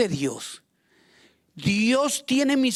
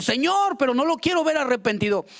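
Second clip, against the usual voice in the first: petulant protest; 3 semitones higher, faster than usual. Acted. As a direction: argue back to God like a spoiled child. Believer protests God's command.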